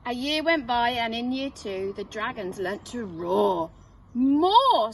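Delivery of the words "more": high loud teacher demand; strict dragon teacher shouting; commanding call. Acted. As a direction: call out for more. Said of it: "said Madam Dragon".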